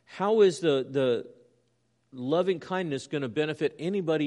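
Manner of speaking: high, loud, urgent questioning of God; challenging rhetorical questions. Retold or imitated. Preacher paraphrasing the psalmist's questions to God, challenging. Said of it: "These are rhetorical questions".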